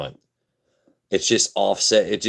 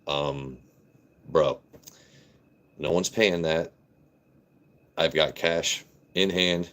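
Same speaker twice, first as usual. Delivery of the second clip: his real deeper voice; 2 semitones lower than usual. Shown as a demonstration. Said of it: "this is my normal voice".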